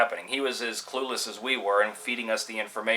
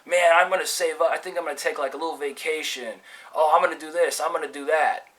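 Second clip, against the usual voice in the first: higher-pitched imitation of eager guys; lightly excited, raised pitch; retold excitement; 4 semitones higher than usual. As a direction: act out a mate excited about plans. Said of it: "So everybody was excited".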